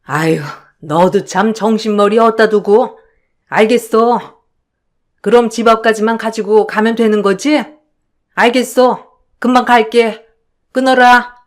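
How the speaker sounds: lightly voiced older mother, brisk; casual mum voice answering her daughter; mother on the phone. Mother answering her daughter's call, casually.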